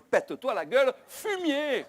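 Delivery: prayer snapping into a high, loud curse; pious murmur bursting into a shouted curse; sudden angry outburst. Retold or imitated. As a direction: break off the prayer and shout the insult. Prayer turns into an insult.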